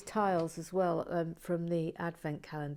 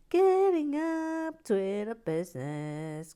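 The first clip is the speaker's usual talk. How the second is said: higher, louder and slow, like an announcement; hammed-up announcer; 6 semitones higher, 7 dB louder, slower than usual. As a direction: boom it out like a grand announcer. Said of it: "lift music".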